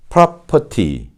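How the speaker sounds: British "property" as "prah-pah-tee", clear T; British model word "property", crisp T; British pronunciation. Shown as a demonstration. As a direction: say "property" slowly with no R and a true T. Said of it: "그렇다면 영국식은요?".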